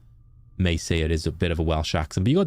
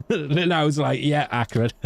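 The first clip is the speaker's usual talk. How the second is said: amused, higher-pitched through laughter; cracking up at your own story; laughing; 7 semitones higher than usual. Real, not acted. Laughing at own drunk-relatives story.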